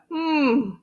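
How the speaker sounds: contented hug "mmm"; hugging hum. A narrator's reading. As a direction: hum as if squeezing tight. Acting out a big hug.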